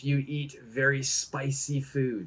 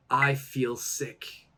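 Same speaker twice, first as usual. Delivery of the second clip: very slow and clear; slow model phrase; 3 dB quieter, slower than usual. Shown as a demonstration. Teacher modelling the phrase slowly for students. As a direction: stretch each word for learners. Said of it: "I could say".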